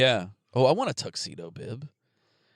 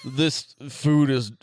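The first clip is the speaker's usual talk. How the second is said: alien chestburster voice; 2 semitones lower, much slower than usual. Pretend. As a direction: speak as a disgusted little alien. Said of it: "that's my alien chestburster voice".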